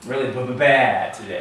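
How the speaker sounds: stuttered doubled b-, b- before bad, laughing; mock doubling of the B in "bad"; a laughing demo of "b-, b-, bad" as a wrong doubled start; doubled B joke. Shown as a demonstration. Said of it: "Can you imagine a word being like this".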